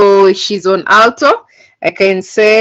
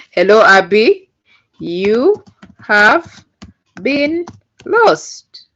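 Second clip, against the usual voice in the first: imitating David; 2 semitones higher, slower than usual. Shown as a demonstration. Teacher mimics the David computer voice for students, mildly put-on. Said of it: "Let me speak like David".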